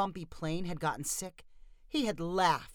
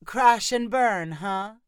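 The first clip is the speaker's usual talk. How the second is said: playful, light, ribbing teasing tone; 2 semitones higher, 4 dB louder than usual. Alma teases Mitch after his crash, in a teasing voice. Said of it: "said Alma in a teasing voice".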